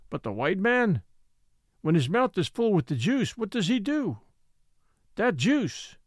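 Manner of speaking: lightly voiced old storyteller, deliberate and indignant; old Ebbets, storytelling. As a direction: explain the foolishness like a village elder.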